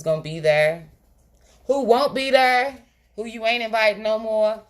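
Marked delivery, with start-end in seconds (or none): 1.7-4.6 raised, emphatic sass; pointed exclamation. Real, not acted. Sassy party guest talk.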